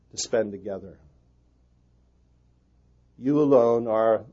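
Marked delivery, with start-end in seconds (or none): 3.2-4.2 alone drawn out slow and loud; stress on alone. Shown as a demonstration. Pastor to his fellow pastors, stressing "alone" slowly and loudly. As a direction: lean hard on "alone" like a preacher. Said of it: "it's in the emphatic in the Greek".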